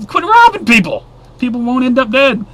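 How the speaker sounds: high laughing scolding. Real, not acted. Vlogger scolding robbers through a laugh. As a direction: laugh it out while telling them off.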